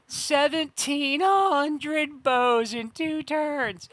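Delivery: loud, slow, stretched-out disbelief; real astonishment; incredulous. Real, not acted. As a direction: drag each word out in shock. Shocked at enemy bow count.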